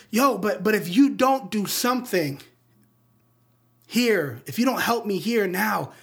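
lightly acted urgent plea; mildly pleading, speeding up towards the end; Miles Morales. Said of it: "he's trying to convince him to help him save Brooklyn".

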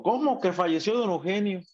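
high-pitched retold shock; re-enacted startled question; shocked disbelief. Reacting to news of death.

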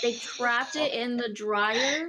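words bubbling with laughter; slow, laughing through the sentence; giggling as the story gets absurd; laughing while telling. Real, not acted. Telling a funny bat story.

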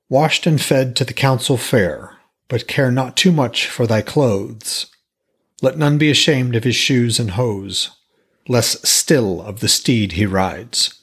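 solemn verse recital; poem reading. A narrator's reading. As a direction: recite it like old scripture. Reads Havamal verse aloud.

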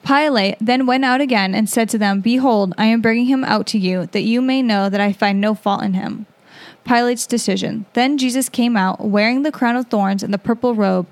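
even, measured Bible narration; scripture reading. A narrator's reading. Podcast host reading the Gospel to listeners, measured scripture reading. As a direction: read the passage aloud clearly.

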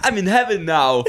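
put-on high, loud goofy dog accent; imitating the dog voice. Friend mimicking the sketch dog, high loud goofy voice. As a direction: mimic the odd dog actor. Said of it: "what accent even is that".

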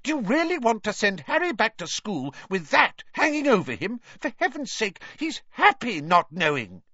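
very high, loud shrill plea. A narrator's reading. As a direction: shriek your fear for him. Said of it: "said Missus Weasley shrilly".

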